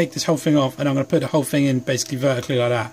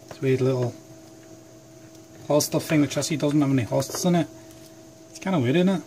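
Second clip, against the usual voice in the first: lightly put-on Scottish accent, a bit softer; 5 dB quieter than usual. Vlogger muttering over his knife in Scottish accent. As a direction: slip into a jokey Scottish accent. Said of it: "Why am I doing Scottish".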